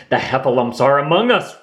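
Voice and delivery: quick, hammed-up alarm; mild mock scream. Rabbit warns friends of invasion, mild mock scream. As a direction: blurt it out in a light panic. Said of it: "Rabbit screamed".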